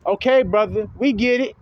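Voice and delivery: mock fed-up viewer. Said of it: "They're telling Ringo".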